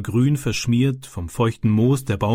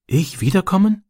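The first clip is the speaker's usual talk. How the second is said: put-on small, high, timid boy's voice; shy question; 7 semitones higher than usual. A narrator's reading. Boy asking his friend shyly if he may return. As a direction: ask shyly, hoping for a yes. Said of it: "fragte er schüchtern".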